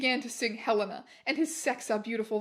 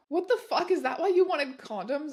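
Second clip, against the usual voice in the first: sadistic question; 3 semitones higher than usual. Acted. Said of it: "I asked sadistically".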